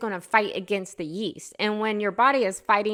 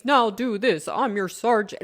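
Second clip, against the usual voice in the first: drill sergeant. Retold or imitated. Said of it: "play the men games".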